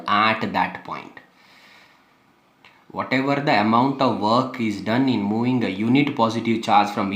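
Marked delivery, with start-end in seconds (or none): 0.0-1.2 "at" held long, then "that point" follows; stress on AT. Shown as a demonstration. Teacher pointing out the key word to students, "at" stressed. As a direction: stretch out "at" to mark it as the key word. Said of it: "I'm stressing the word".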